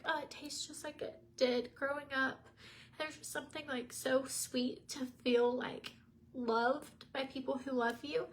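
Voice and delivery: tearful and choked up, voice lifted; fighting back real tears over a memory; real crying while telling the story; teary voice. Real, not acted. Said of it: "this is so silly to be crying about cake".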